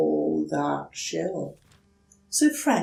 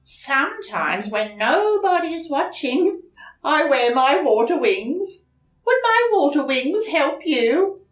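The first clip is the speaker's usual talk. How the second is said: higher, confiding duck voice; shy duck; 9 semitones higher, 8 dB louder than usual. Acted. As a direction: admit a secret, a bit embarrassed.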